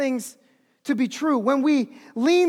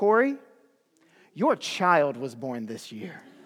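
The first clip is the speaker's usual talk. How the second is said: quiet, calm, firm, very deep voice with conviction; 11 semitones lower, 5 dB quieter than usual. Speaker retells a woman's reply to him, imitating calm deep conviction. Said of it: "calmly, but with deep, deep conviction in her voice".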